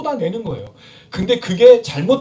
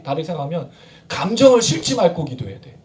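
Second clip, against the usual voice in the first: usual speaking voice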